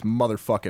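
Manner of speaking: "motherfucking" ending in -in' instead of -ing; dropped G. Shown as a demonstration. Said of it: "you said the G too clearly".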